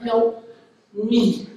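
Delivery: gently imitated plea; mild, gentle retold plea; real gently. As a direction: say it small and gentle, with a pause between the words. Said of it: "she just said real gently".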